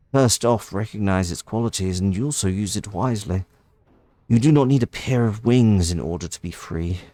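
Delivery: lightly voiced noble bird lady, wistful; gentle bird lady. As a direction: speak like a caged sage granting freedom. Voices the bird lady's message.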